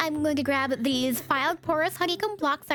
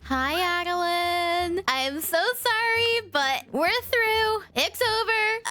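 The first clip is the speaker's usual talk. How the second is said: mock-dramatic breakup; slower than usual. Breaking up with wife.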